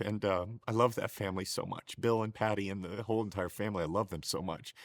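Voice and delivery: real tears held back, quiet and thick; choked up. Real, not acted. Husband thanking the family who took him in, choked up. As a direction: voice dropping soft and low, choked with emotion. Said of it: "It's where I get choked up the most".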